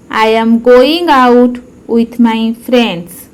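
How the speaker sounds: slowed down for learners to copy; careful slow teacher repetition; slow model repeat. Shown as a demonstration. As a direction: say it again slowly and clearly. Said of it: "repeat-after-me demo".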